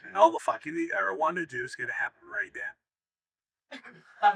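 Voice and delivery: high, hammed-up seductive woman; breathy high woman's voice. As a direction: purr it out like a lustful castaway.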